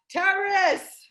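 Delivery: long, high heckler's yell; imitated yell. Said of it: "and they yelled out".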